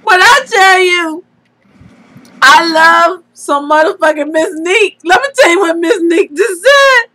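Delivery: can barely tell it for laughing; real laughing to tears. Real, not acted. Friend passing on Miss Neek's comment, laughing to tears. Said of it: "this is a real tear. I'm crying".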